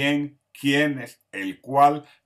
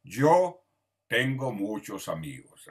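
slow example sentence; slower than usual. Shown as a demonstration. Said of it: "son los pronombres".

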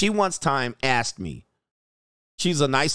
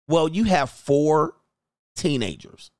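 blunt, slow delivery; 3 semitones higher, slower than usual. Retold or imitated. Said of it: "I said".

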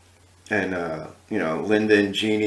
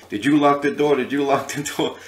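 higher-pitched mock interrogation; angry singer impression; 5 semitones higher, 3 dB louder than usual. A famous singer questioning everybody in the theater, angry. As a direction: imitate an irate boss questioning each person. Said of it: "he was really angry".

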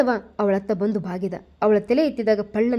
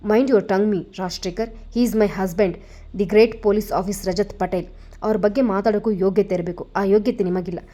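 furious retort. Acted. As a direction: defend him with rising fury. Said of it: "ಅವರಿಗಿಂತ ಹೆಚ್ಚು ರೋಷದಿಂದ ನುಡಿದಳು".

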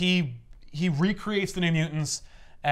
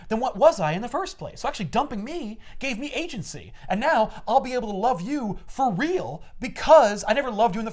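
lightly voiced earnest ex, pitched higher; eager, higher plea to get back together; Owen; 5 semitones higher than usual. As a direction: pour out a heartfelt speech in a raised voice. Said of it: "Owen's like".

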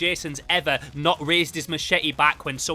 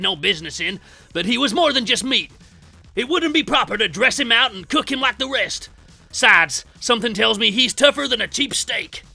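Cook with a heart; 4 dB louder than usual. Acted. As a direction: plead the case in a hammed-up Texan twang. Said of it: "having a bit more of a heart".

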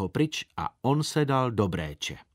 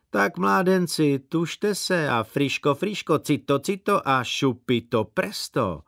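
put-on loud, higher, slow calls to hurry the boys; hammed-up foreman urging; 4 semitones higher, 3 dB louder than usual. Circus man urging boys to carry water, loud and drawn out. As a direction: bellow at the lads to hurry, drawn out.

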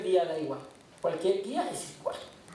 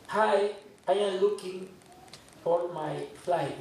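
put-on slow halting English with a Spanish accent; slower than usual. Preacher retelling his airport question in slow accented English. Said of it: "Con mi inglés así".

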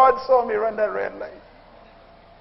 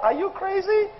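mock outraged parent; 7 semitones higher, 6 dB quieter than usual.

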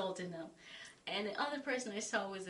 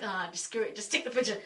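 exasperated; 6 dB louder than usual. Retold or imitated. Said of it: "I was like".

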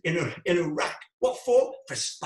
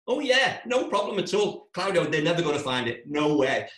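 mock the mate's silly confidence; sarcastic mock agreement; 3 dB louder than usual. Mocking the mate's reassurance.

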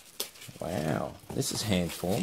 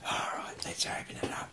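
sneaky hushed whisper; mock-secret whisper, barely voiced; 8 dB quieter than usual. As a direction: whisper as if nobody should hear. Secret aside before opening gift.

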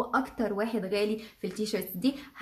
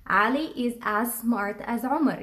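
slow model sentence; slower than usual. Shown as a demonstration.

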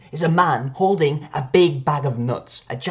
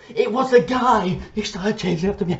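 shocked; 6 semitones higher than usual. Real, not acted. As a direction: drag it out in horror. Shocked reveal.

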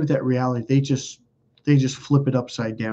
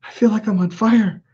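higher-pitched imitation of an overheated girlfriend; distressed girlfriend; 8 semitones higher than usual. Girlfriend telling him she's burning, imitated high-pitched distress. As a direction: mimic her alarm in a higher voice. Woman overheating during exorcism.

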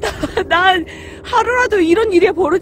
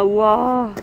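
muffled behind cloth mask; speaking through covered mouth; through a face mask; 9 semitones lower than usual. Real, not acted. Seen 5: Checkered cloth mask covers mouth and nose throughout labelled words.

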